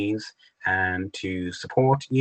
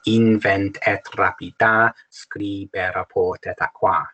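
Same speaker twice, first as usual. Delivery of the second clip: poetic reading; slower than usual. Shown as a demonstration. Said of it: "internal rhyme with a little bit in the line".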